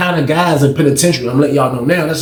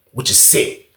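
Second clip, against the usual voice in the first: whispered aside; 6 dB quieter, slower than usual. Real, not acted. Disgusted aside.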